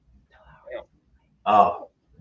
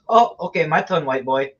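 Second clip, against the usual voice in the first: higher, louder mock ladyboy; 6 semitones higher, 4 dB louder than usual. Ladyboy voiced in story.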